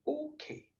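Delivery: high, very soft granny's okay; granny agreeing. Retold or imitated. Granny agrees to tell a bedtime story, high soft voice. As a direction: give in quietly, high and small. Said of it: "my granny looked at us and she went".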